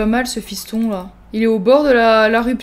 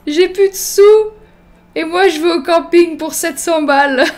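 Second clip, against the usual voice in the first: higher-pitched mock outcry; 4 semitones higher, 4 dB louder than usual. Player joking she has no money left, mock outcry. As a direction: cry it out with playful exaggeration. Mock lament over being broke.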